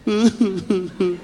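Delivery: mock crying into the phone; string of short wordless sobs; imitated sobbing. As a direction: pretend to weep down the line. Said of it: "zo huilden we alleen maar".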